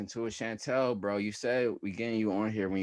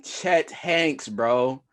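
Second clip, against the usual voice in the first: hype shout; 9 semitones higher, 9 dB louder, much slower than usual. Real, not acted. Hyping up a joke pick.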